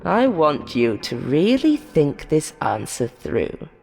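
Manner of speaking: lightly voiced showman host; a hint of a sly quiz host; game show host. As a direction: play the host, mock cheerful and menacing. Host addresses last contestant.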